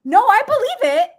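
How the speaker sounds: loud playful declaration; mock fervent. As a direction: proclaim it loudly in jest.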